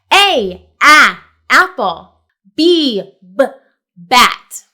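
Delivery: slow letter, sound and word chant; phonics drill. Shown as a demonstration. Teacher modelling the alphabet sounds, steady drill. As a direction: model each letter for the kids. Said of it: "Let me break it down for you".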